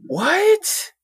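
high, stunned what; shocked what. Real, not acted. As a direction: yelp it in disbelief. Shocked by surprise team lineup.

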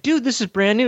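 high, excited retold exclaim; amazed. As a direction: act out the shock of finding it brand new. Retelling his surprise at the TV.

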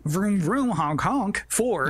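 goofy, slow vroom vroom honk honk; hammed-up kid car noises; silly clown.

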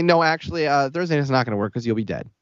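imitating a businesslike operator; mock matter-of-fact delivery. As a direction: deliver bad news as routine scheduling. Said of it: "Like, just matter-of-factly".

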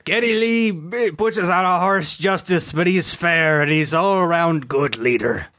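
mock Canadian accent. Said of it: "take on the accent".

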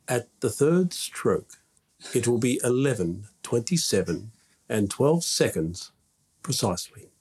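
lightly voiced speaking clock recording; spliced together words. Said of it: "I love that voice".

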